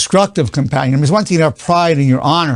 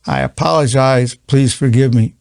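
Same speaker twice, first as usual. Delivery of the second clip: sincere apology. Shown as a demonstration. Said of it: "That really takes it another level".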